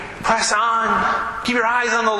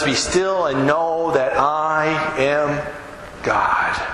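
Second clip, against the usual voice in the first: calm and slow; 5 semitones lower, much slower than usual. Shown as a demonstration. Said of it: "The Bible says".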